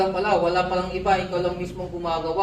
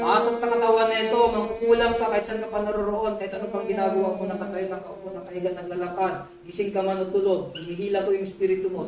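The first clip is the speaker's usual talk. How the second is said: chanted ritual summons, slowing near the end; summoning incantation. Real, not acted. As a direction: call the spirit in like a spell.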